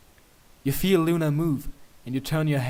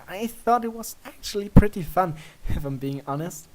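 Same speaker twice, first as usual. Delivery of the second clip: a raised, lightly voiced princess; Luna voice; 6 semitones higher, 5 dB louder than usual. A narrator's reading. Narrator voicing Luna after her giggle, high and light. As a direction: lift the voice for the playful princess.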